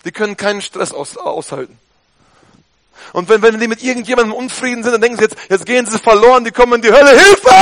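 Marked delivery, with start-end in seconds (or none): 5.2-7.5 fast, rising mock alarm ending in a loud cry; imitating fearful harmony seekers yelling Hilfe; mock panic. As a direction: ham up a panicked soul crying for help.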